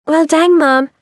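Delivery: mock Southern twang, played for laughs; phony Southern accent. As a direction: lay the Southern accent on thick and fake. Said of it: "with a very phony Southern accent".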